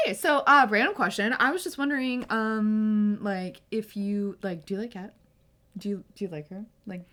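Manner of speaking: mock-casual opener, then fumbling; awkward asking. Friend asking a boy if he likes her, awkward.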